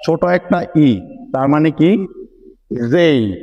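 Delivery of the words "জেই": জেই said as je gliding into a light i; pronunciation demo. Shown as a demonstration. Teacher to students, correcting জে to জেই. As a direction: give জেই the same glide as এই. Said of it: "যেরকম ভাবে আমরা এই বলছি".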